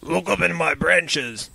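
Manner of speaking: slow, woeful tree voice; sighing tree. A narrator's reading. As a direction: draw the words out as a sighing tree. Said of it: "a sighing voice".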